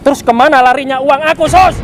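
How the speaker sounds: rising outrage, push the question up; indignant demand. Acted. Husband demands from his wife where his money went, outraged. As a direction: pitch climbing sharply on Sus.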